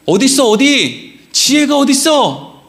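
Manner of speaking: short repeated challenges, then a drawn-out question; calling someone out, piece by piece; insistent searching demand. Shown as a demonstration. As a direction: demand to know where. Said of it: "원문의 순서에 맞게 읽으면 이렇게".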